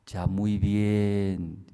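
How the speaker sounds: a lightly voiced hidden voice giving orders. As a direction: speak like an unseen voice in the dark. Hidden voice approving.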